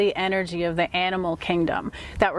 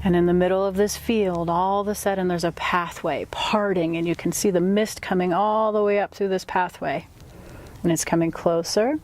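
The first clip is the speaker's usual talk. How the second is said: guided meditation. Acted. Guide leading a client on an inward animal totem journey, guided meditation. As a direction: ease the listener inward, phrase by phrase.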